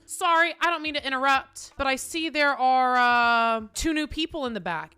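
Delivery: imitating terrifying judge. Judge calls out newcomers at the back, imitated terrifying judge. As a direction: interrupt like an intimidating judge. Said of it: "the judge goes ... this judge is terrifying".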